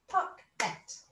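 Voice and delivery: "pocket" in two beats, pock, et; two syllables. Shown as a demonstration. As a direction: separate "pocket" into its syllables with a gap. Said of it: "it's got to have two syllables".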